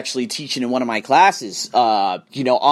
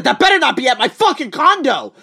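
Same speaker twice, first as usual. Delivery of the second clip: panicked laugh; 10 semitones higher, 5 dB louder than usual. Retold or imitated. Panicking at covid tracker map.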